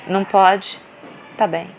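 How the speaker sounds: unimpressed mother; dry dismissive reply. Retold or imitated. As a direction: brush her off deadpan. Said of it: "só olhei pra ela assim".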